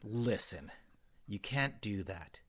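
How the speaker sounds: low, hushed mock heart-to-heart; confidential counselor. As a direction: play the quietly conspiring counselor, very soft. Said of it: "are you like".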